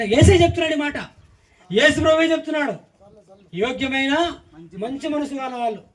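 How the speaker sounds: high, loud proclamation; forceful preaching. Real, not acted. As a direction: proclaim it to the congregation. Proclaims to congregation.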